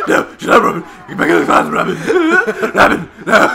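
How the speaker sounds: laughing. Real, not acted. Laughing at Robin.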